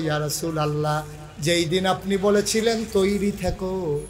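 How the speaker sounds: sing-song devotional reply; melodic preaching. Acted. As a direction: draw out the final word in a long wavering cry.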